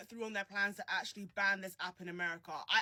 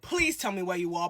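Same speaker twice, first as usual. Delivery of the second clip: a louder repeat of the ask; louder repeated plea to viewers; 3 semitones lower, 6 dB louder than usual. Real, not acted. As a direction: call it out to the whole audience. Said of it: "please tell me where you are in the world".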